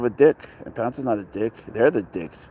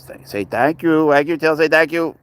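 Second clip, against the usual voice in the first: voicing the cat; 5 semitones higher, 5 dB louder than usual. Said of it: "He says".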